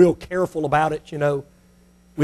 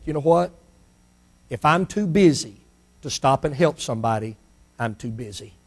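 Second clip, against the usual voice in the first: low, softer and softer; quiet realization; 6 semitones lower, 7 dB quieter than usual. Acted. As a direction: think it to yourself, fading. Executive's inner realization.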